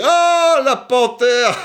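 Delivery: mock, very high, loud, forceful exclamation. Retelling what a crazy guy said to him, speaking loudly. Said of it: "il parle fortement".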